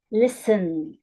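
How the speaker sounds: "listen" with "lis" strong, "ten" falling away; stress on first syllable. Shown as a demonstration. Teacher giving an example of unstressed endings, stress on "lis" in "listen". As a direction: put the weight on "lis" in "listen". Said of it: "The first syllable is stressed".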